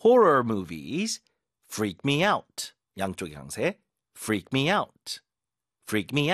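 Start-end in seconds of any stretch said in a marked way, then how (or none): 0.1-2.7 Horror punched, split into two slow chunks; stress on Horror. Shown as a demonstration. Teacher shows the stress on Horror movies. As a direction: hit Horror first, then freak me out. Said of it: "horror movies 앞에 힘 주고".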